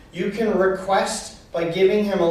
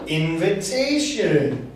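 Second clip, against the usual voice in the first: slow, drawn-out invitation; slower than usual. Shown as a demonstration. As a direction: stretch invitation slowly, falling at the end. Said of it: "Just explain".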